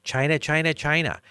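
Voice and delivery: hammed-up Trump impression; imitating Trump. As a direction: ham up his China chant. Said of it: "All he said was".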